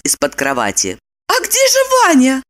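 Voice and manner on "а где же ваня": high, startled woman's voice; gasped question. A narrator's reading. Woman finds Vanya's bed empty, high startled gasp. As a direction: ask it high with alarm. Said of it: "ахнула она".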